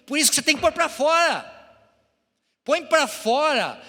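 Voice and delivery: preaching at full force. Acted. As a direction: call out to the congregation to let it out. Preacher urges congregation, exclaiming.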